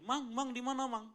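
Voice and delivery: loud, high call through the house. Retold or imitated. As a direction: call for the missing guest, searching. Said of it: "Lalu saya panggil". (memanggil keras dengan suara tinggi)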